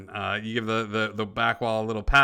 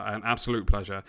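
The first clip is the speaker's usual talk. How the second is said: lightly voiced older British gentleman; understated British accent, courteous; 3 semitones lower, faster than usual. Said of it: "the older gentleman nods at you and goes".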